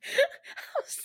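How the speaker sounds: loud, high, helpless laughing jeer; laughing taunt. Real, not acted. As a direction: tease through a fit of laughter. Mocking Cody while cracking up.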